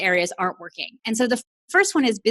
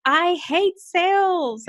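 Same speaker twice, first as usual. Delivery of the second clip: reluctant client; 8 semitones higher, 3 dB louder, much slower than usual. Retold or imitated. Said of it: "they're like".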